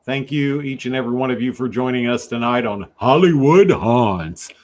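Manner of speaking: lightly hammed game show host; a hint of a TV host welcome. Shown as a demonstration. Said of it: "I try to sound like a game show host".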